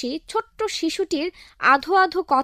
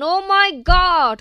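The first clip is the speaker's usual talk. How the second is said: exasperated; 4 semitones higher, 4 dB louder, much slower than usual. Acted. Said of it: "officer এবার হতাশ হয়ে বললেন".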